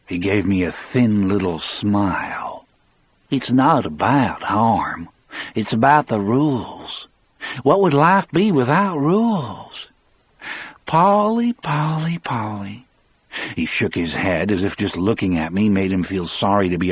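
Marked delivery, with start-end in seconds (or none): 3.3-12.9 Brad's voice. A narrator's reading. Brad mocks Paul about rules.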